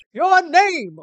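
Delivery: loud, high bellow; imperious demand. Acted. CEO demanding a visitor's name, imperious and loud. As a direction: boom it like a pompous boss.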